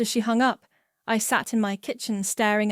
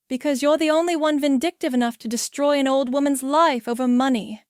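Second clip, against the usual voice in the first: louder, higher accusing rant; angry accusation; 4 semitones higher, 4 dB louder, faster than usual. Acted. Chris blaming his wife through the door, louder and accusing. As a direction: throw the blame at her.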